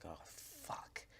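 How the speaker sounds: breathy whispered curse; inner whisper. Retold or imitated. A kid cursing under his breath on the way to the dean. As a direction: whisper it to yourself, dreading it. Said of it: "in my mind, I was like".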